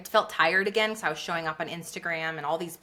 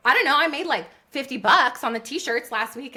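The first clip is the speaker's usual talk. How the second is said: flustered; 5 semitones higher, 5 dB louder than usual. Retold or imitated. Retold panicky answer to friend.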